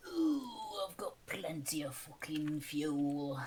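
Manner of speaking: breathy ooh then whispered boast; gleeful whisper. Real, not acted. Bragging to friends about fuel, whispered. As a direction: whisper it like a secret treasure.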